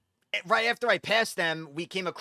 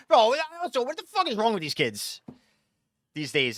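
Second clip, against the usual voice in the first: high, louder burst of disbelief; real exasperation, pitched up; exasperated outburst; 6 semitones higher, 3 dB louder than usual. Real, not acted. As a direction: blurt it out, fed up with them. Exasperated reaction to door-kicking video.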